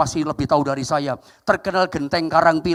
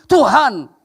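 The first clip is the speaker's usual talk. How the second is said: raised, louder retold cry to God; mock tearful lament; 5 semitones higher, 4 dB louder than usual. Pastor asking God about the collapsed church, mock tearful lament. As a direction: imitate a distressed pastor's plea, no real sobbing. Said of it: "pendeta itu nangis, ngomong begini".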